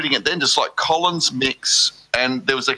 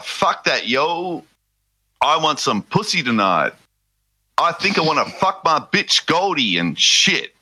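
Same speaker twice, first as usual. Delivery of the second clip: reading aloud haltingly; 2 semitones higher, slower than usual. Pretend. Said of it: "struggle to read our favourite song by a rapper".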